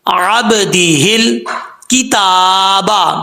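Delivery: slow, drawn-out recitation; slow recitation demo. Shown as a demonstration. Teacher reciting the verse words for students. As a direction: recite slowly, letter by letter. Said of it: "teacher reciting example words".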